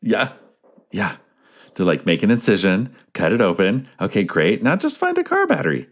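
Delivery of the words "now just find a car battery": high, chirpy how-to host voice; bright kids' science show host; cheery instructor. Pretend. Mock instructions to viewer.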